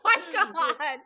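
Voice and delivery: laughing through the words; mortified, helpless laughing exclamation, dragged out; embarrassed laughter. Real, not acted. Host mortified by guest's teasing about the clip, embarrassed laughter.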